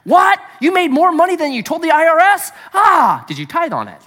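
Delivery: preacher lampooning a God who tallies your sins; mock accusing God. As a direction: bark the accusation, then needle them about the tithe. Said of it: "That's not God".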